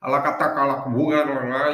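mock chant of made-up words, loud; imitated indigenous language. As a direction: imitate a foreign tongue, loud and rhythmic. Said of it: "eu tô só imitando como era o negócio". (imitação de língua indígena, alta)

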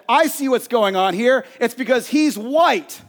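acted-out angry confrontation; angry accusation. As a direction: imitate an indignant accuser, pitch lifted. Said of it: "angrily said".

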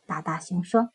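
plain reading voice

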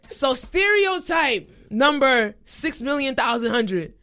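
slow, laughing while talking; slow words through a real laugh. Real, not acted. Still laughing after story.

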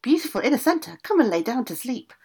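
high, loud call across the castle; witch crying out. A narrator's reading. Old witch calling her daughter from bed, loud and high. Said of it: "cried out".

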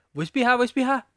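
high, loud silly inner voice; voicing his body. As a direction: whine it like a nagging body. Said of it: "O corpo fala".

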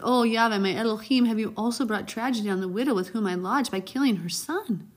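high, loud plea; crying out. Acted. Prophet cries out to God for the dead boy. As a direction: cry out to God. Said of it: "he cried out".

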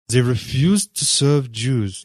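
neither surprised nor saddened, slowed and level; flat, unmoved character voice; flat, unemotional. A narrator's reading. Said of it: "His voice was flat, unemotional".

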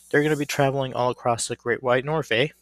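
playful hint of Canadian, ending on "eh"; slight Canadian accent. Wrestling fan playfully talking up a Canada tour, slight Canadian accent. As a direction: put on a bit of a Canadian accent. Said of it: "trying to speak in a bit of a Canadian accent".

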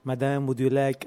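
badly faked French waiter accent; attempted French accent. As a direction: try a French accent and miss. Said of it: "my attempt at trying to do French".

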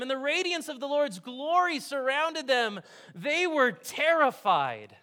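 lifted, slow Bible reading voice; scripture reading. Acted. Pastor reading the Christmas story to the congregation, reverent and lifted. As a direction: read the verses with awe, slowly. Reads Luke aloud.

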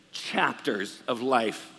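very slow, stretched phrase; drawn-out teasing. Pretend. Pastor teasing grandparents showing endless photos, stretched slowly. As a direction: stretch it out for comic effect.

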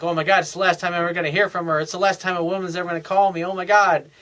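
fast, breathless mock panic; hammed-up scarcity panic; panicked neediness. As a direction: rattle it off like a desperate guy. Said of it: "you get that scarcity mode".

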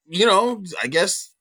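high breezy "whatever" tone; casual shrug. Retold or imitated. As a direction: shrug it off, then firm up. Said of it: "I was kind of like".

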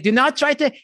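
slow, high mock French accent. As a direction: imitate Jean-Claude Van Damme's French accent, drawn out. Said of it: "with his French accent".

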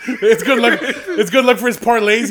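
laughing through the words. Real, not acted. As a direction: talk while cracking up. Laughing while telling story.

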